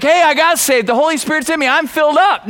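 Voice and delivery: hammed-up, pleased-with-yourself announcement; mock enthusiasm. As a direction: act out someone cheerfully overconfident. Acts out a complacent new believer.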